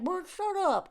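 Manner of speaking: put-on snippy pet voice; mean dog voice. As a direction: scold as the talking dog. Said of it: "I give my dog my mean voices".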